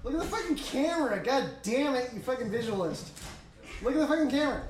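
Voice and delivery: bossy, laughing yell at the cameraman; demanding. Retold or imitated. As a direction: boss them into looking up. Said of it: "I'm all demanding".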